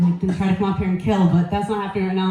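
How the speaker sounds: breathless, winded delivery; talking while out of breath. Real, not acted. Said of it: "I'm out of breath".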